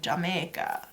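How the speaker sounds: light mock Jamaican accent; a hint of pretend Jamaican accent; attempted Jamaican accent. Shown as a demonstration. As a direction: have a playful go at a Jamaican accent. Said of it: "I'll try to do a Jamaican accent".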